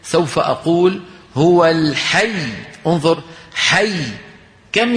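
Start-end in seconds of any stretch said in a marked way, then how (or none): 1.4-2.5 slow "هو الحي" with pressure on the doubled ي; deliberate recitation demo; stressed stop on the doubled letter. Shown as a demonstration. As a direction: press the ي in "الحي" before stopping. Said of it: "لما بدي وقف على الحي سوف أقول".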